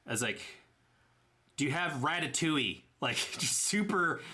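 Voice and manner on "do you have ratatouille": put-on 1 Tennessee accent. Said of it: "super Tennessee English".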